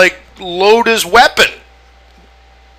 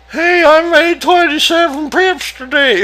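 mocking boast; 10 semitones higher than usual. Mocking a boastful amateur trader.

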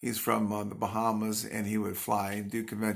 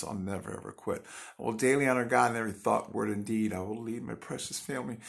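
earnest poem recitation, slightly quicker in places; recited creed. Acted. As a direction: recite the creed like a daily vow. Recites her morning creed poem.

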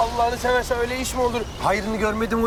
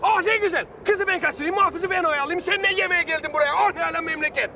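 sarcastic high whine; 6 semitones higher than usual. Acted. Sarcastic complaint, higher voice.

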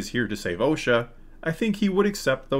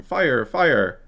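mild retold yell; 4 semitones higher, 5 dB louder than usual. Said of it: "comes running out yelling".

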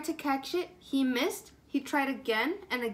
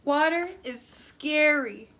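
fearful wail; 3 semitones higher, 5 dB louder than usual. Acted. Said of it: "they cried together".

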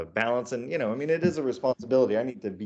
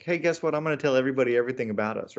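mock excited announcement; 3 semitones higher, much faster than usual. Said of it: "someone who's like".

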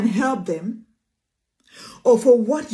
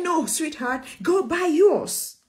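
wise virgin refusing; 3 semitones higher, slower than usual. Acted.

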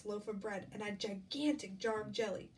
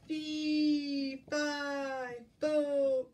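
drawn-out, raised, loud chant; falling giant's cry; 4 semitones higher, 6 dB louder, much slower than usual. A narrator's reading. Giant comes tumbling down, drawn-out loud cry. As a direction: stretch each syllable loudly as if tumbling.

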